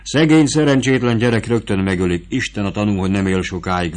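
put-on motherly soldier woman talking down to a boy; lightly voiced camp woman; vivandière's voice.

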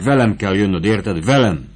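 firm order, Velem stressed; vivandière ordering the boy to follow; commanding. Acted. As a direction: insist he comes with you. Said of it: "Ismételgette parancsolóan".

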